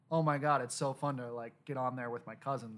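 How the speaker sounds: put-on light Valley Girl voice; bubbly valley girl gush; Valley Girl accent. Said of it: "I did a Valley Girl accent".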